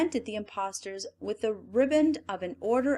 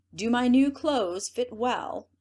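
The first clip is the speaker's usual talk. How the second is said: higher, louder, slow vain question; preening emperor; 5 semitones higher, 5 dB louder, slower than usual. Acted. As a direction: fish for a compliment. Emperor preening before mirror.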